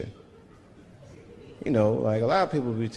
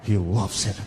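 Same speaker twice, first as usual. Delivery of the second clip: mocking onlookers; slower than usual. Imagined onlookers mocking him.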